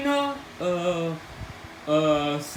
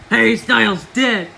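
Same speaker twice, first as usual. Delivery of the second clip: mock crying; 2 semitones lower than usual. Fan crying over singer.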